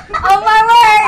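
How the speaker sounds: squeaky high helium voice; chipmunk-high voice. Real, not acted. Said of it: "my voice is so high".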